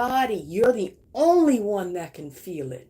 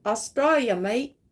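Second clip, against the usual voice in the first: put-on Australian accent. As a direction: toss off a playful Australian accent. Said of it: "My best accent".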